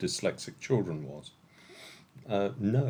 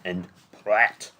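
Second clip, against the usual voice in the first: attempted French accent, raised pitch; 3 dB louder than usual. Shown as a demonstration. Quizmaster tries out French village names, attempted French accent. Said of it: "Pratt in a French accent".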